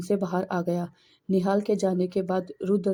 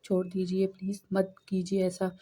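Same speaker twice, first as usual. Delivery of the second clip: softer, a mild understated plea; pleading; 4 dB quieter than usual. Acted. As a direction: beg him quietly to let go, lightly voiced. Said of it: "Avani ने गिड़गिड़ाते हुए कहा".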